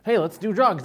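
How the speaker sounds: tempting friend. Retold or imitated. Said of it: "they're like".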